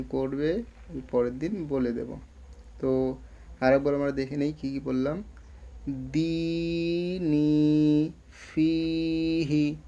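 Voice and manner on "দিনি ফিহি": slow, level chant with long held vowels; drill recitation. Shown as a demonstration. Teacher reviewing the words just read, slow elongated recitation. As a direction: draw out every long vowel, word by word.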